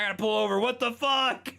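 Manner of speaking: high, loud shocked outburst; stunned, like hearing yourself on the radio mid-drive; retold freak-out. A DJ hearing the song while driving, shocked and loud.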